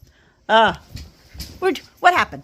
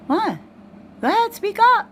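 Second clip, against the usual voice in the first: coaxing dog talk; 8 semitones higher than usual. Real, not acted.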